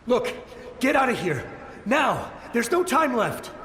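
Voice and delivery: urgent plea. Acted. Soldier urging the travellers to flee, urgent and pressing. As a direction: push them out the door now.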